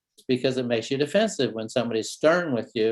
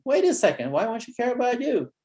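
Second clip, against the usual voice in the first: storytelling surprise; 10 semitones higher than usual. Shown as a demonstration. Therapist drawing the kid out, mock surprised. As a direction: sound struck by it, then ask. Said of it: "notice the storytelling".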